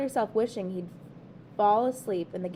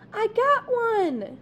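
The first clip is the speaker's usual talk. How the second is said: slow, high triumphant shout; 12 semitones higher, 6 dB louder, much slower than usual. A narrator's reading. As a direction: yell it out in triumph. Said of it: "she shouted".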